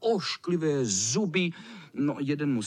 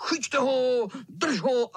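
shouting; 9 semitones higher, slower than usual. Acted. Boys shouting while chasing the cat. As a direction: yell after the cat. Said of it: "křičeli".

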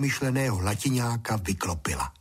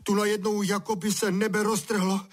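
high, wailing complaint; soaked boy lamenting to his father; 10 semitones higher than usual.

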